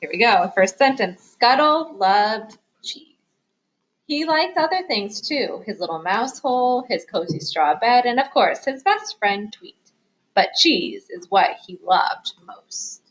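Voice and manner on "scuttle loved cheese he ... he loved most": lively picture-book reading, stressing key words; story narration for children. A narrator's reading. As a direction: read it aloud to little listeners. Reads picture book aloud.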